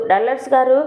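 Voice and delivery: calling out his name. Acted. Indu calls Dallars to wake him, a mild mock shout. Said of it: "అంటూ అరుస్తూ ఉంటే".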